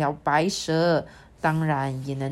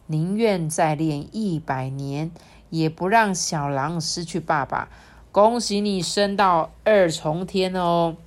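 smiling; 3 dB louder than usual. Acted. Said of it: "笑盈盈地说".

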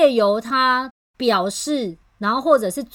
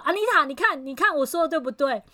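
high-pitched plea to the referee; two quarreling people dragging Anita in, voices high; heated appeal; 6 semitones higher, faster than usual. Retold or imitated. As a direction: call on Anita to back you up, worked up. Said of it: "越来越大声哦".

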